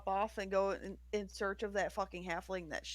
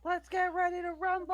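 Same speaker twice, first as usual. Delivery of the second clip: ring announcer; 11 semitones higher than usual. Acted. Player riffing on the name Rumble, ring announcer. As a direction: stretch the last word like a fight announcer.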